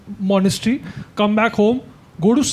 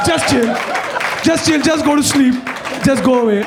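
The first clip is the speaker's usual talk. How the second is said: lightly voiced uncle; 4 semitones higher than usual. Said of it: "He was like".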